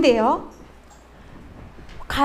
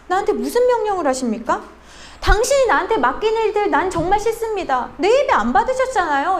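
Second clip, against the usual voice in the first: higher-pitched, mock-aggrieved talking back; acted sarcastic defiance; 4 semitones higher than usual. Cain resenting his rejected offering, acted sarcastic defiance. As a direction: imitate someone bitterly throwing orders back. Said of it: "비꼬면서 이렇게 얘기하지 않았을까요?".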